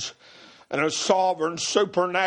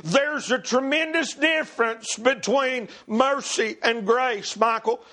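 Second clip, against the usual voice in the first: fervent preacher in a raised, rolling cadence; driving preaching; 5 semitones higher than usual. Real, not acted. Preacher testifying to the brothers about mercy, driving and fervent. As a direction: press each phrase on with fervor.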